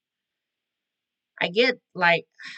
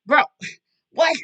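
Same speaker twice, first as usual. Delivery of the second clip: laughing disbelief; 9 semitones higher, 6 dB louder than usual. Real, not acted.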